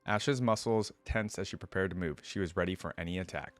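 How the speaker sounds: steady storybook reading voice; narrating a fantasy tale to viewers; story narration. A narrator's reading. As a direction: read the lore aloud like an audiobook. Reads story aloud between comments.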